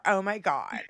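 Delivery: put-on lightly disgusted Valley Girl parody. Insulting the secretary's hair, mock Valley Girl. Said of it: "Now we need drops from Valley Girl".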